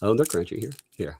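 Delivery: chewing with mouth closed; mouth full. Real, not acted. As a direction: talk through a crunchy bite. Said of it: "I chew with my mouth closed".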